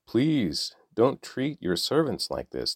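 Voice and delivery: a touch of pleading, lightly voiced; mild plea to the king; begging. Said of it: "they begged".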